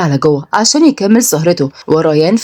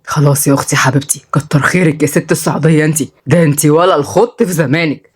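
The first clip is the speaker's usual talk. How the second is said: lightly voiced placating brother; lower, a touch of dry teasing; teasing younger brother; 3 semitones lower than usual. Brother placates his fierce sister, teasing.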